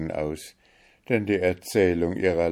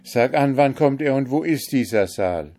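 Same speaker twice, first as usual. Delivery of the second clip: higher, louder, pressing questions; eager urging; 7 semitones higher, 6 dB louder than usual. A narrator's reading. Kalif presses the owl princess for answers, eager and louder. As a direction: demand to know at once. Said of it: "rief der Kalif".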